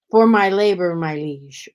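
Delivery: lightly put-on ye olde King's English; imitated olde English declamation; mock King's English. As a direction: play at archaic courtly English. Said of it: "in ye old King's English".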